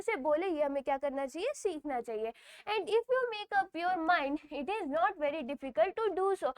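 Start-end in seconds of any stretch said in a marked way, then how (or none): 2.7-6.5 slow reading aloud. Shown as a demonstration. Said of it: "reading textbook line slowly".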